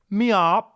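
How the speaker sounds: high squeaky meow; meow fart sound. Retold or imitated. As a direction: imitate a tiny meow. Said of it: "nothing comes out".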